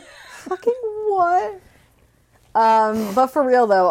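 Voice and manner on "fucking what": slow, high, laughing disbelief; shocked disbelief. Retold or imitated. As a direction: drag it out, half laughing. Repeating the quote.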